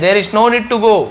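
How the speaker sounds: "there is no need to go" said slowly, pitch up; slow, lifted teacher demo. Shown as a demonstration. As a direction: repeat it slowly for memory. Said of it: "आपको बस याद करना है".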